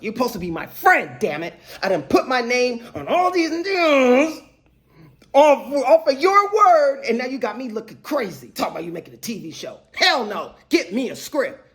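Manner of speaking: mock indignant rant; industry mad. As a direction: act mad without really being mad. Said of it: "that's industry mad, 'cause you mad".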